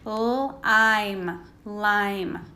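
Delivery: "lime" built up slowly, l, then i, then lime; sounding out lime. Shown as a demonstration. Teacher sounding out words for pupils in class. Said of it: "making the long I sound".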